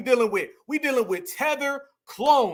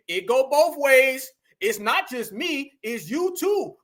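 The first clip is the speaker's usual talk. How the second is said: drawn-out mock excuse; mocking imitation; 2 semitones higher, slower than usual. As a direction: slowly mimic someone making excuses. Mimics the excuse they make.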